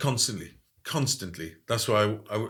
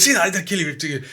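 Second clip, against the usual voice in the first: a lightly hammed warning; mimicking a fierce patient; 5 semitones higher than usual. Imitating the woman at the Priory threatening over the mug, half-hearted. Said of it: "So she goes".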